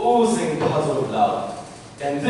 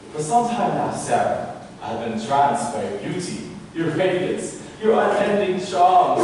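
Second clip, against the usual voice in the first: rehearsing a proposal; 6 semitones higher than usual. Acted. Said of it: "practice my proposal".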